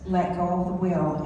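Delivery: low, calm, unhurried voice from nowhere; distinct calm voice. Retold or imitated. Mysterious voice telling a driver on ice, calmly low. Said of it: "I heard it just once".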